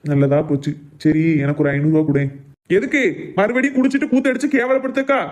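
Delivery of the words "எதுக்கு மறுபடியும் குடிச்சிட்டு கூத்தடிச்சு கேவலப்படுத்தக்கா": high-pitched angry retort; angry outburst. Acted. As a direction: throw the question back in anger. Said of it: "காலையிலேயே அப்படி கோவப்படியா".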